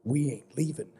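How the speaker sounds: lightly borrowed folksy drawl; folksy accent. Acted. Player to old townsman, a hint of his folksy accent. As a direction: answer back in the old man's folksy accent. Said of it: "Why am I talking in your accent".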